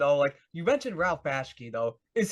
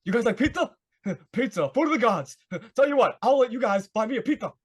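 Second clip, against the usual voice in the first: a lightly voiced, higher, louder impression of a big laughing director; laughing mock impression of a larger-than-life boss; Ralph Bakshi; 6 semitones higher, 5 dB louder than usual. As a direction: ham up a gregarious director offering pizza, chuckling through it. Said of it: "and he's like".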